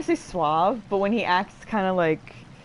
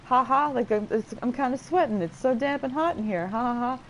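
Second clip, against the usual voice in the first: higher, mock nervous ha-ha cover-up; quick deflection; 5 semitones higher than usual. Man covering misty eyes by blaming the damp, mock deflection. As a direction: imitate someone hurriedly changing the subject. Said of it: "quickly changing the subject to be like".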